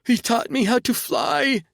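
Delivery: shrill drugged high shout; ecstatic shout. Acted. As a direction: scream it in rapture.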